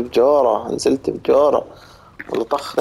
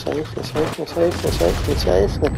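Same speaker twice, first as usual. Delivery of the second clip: high-pitched disbelief; 6 semitones higher than usual. Real, not acted. Being shot at, disbelief.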